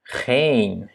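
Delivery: geen with a long, held E. Shown as a demonstration. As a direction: hold the E in geen. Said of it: "donc c'est un E long". (E allongé dans « geen »)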